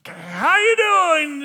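slow, loud and high, with the weight on YOU; How YOU doing, drawn out slow and loud; hopeful repeat. Acted. Repeating greeting into silence.

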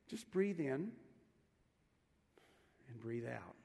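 slow guided breathing. Shown as a demonstration. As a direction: lead the congregation's breath gently. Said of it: "something I want to practice with you".

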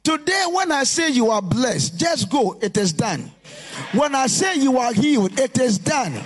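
chanting it is done in a steady preaching cadence; rhythmic preaching declaration. Acted. Preacher to congregation, proclaiming blessings in a rhythmic preaching cadence. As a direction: proclaim each promise, then land it is done.

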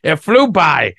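high, loud, laughing repeat of the phrase; laughing echo. Real, not acted. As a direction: laugh it out, savoring the words. Echoing with laugh.

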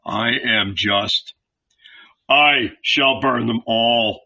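slow whispered voice of God, cold and final; God answers Abraham, slow and unyielding whisper; stern God. A narrator's reading.

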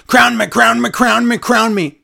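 put-on sing-song the demand like a nagging kid; mocking impression of a wrestler begging for the crown; mocking Woods. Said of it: "Woods says".

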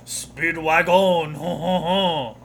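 slow, hammed-up German accent with a ho ho ho; a cartoon German villain chuckling in a German accent; slow mock German Speedwagon greeting; mock German laugh. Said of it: "the German guy comes up and goes".

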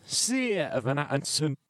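giggling through the words; laughing while imitating. Shown as a demonstration. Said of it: "forwards sounded like this".

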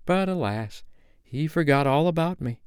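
rueful line said through a smile; a touch of smiling regret. A narrator's reading. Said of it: "Wendy said it with a smile".

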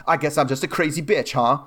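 imitated defensive sarcasm; Tracy, sarcastic. Woman defensively turning the insult on herself, sarcastic. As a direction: toss it out as a mock-wounded retort. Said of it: "like sarcastically being like".

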